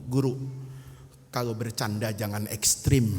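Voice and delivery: low, quiet grumble; subdued complaint. Acted. Beaten student complaining to his teacher, subdued. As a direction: say it low and soft, worn out.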